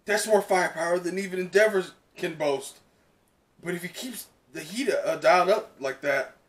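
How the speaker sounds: lightly voiced friend calling; urgent call. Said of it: "Brandon comes up and goes".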